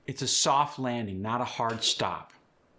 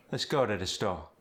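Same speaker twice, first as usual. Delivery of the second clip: musical Cajun lilt; Cajun sing-song; 3 semitones lower than usual. Shown as a demonstration. Coach showing Cajun melody on a sentence. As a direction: let the line sing a little. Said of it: "a little sing-song".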